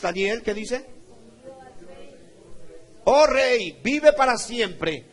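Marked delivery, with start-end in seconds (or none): 3.0-5.1 loud, high, slow proclamation; declaimed scripture reading. Real, not acted. Preacher leading church in Daniel's answer to the king, loud declamation. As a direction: call it out to a king, drawn out.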